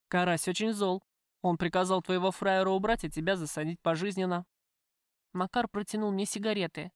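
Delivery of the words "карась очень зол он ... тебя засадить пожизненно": lightly voiced tough man; gangster, coolly menacing. Gangster tells the prisoner he knows of her visitor, cool. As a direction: speak as a matter-of-fact criminal.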